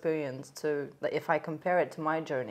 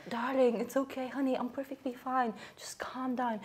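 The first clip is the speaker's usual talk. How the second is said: softer, higher soothing client voice; calming; 4 semitones higher, 7 dB quieter than usual. Retold or imitated. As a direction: imitate a client gently consoling someone. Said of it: "the client's calming a therapist down".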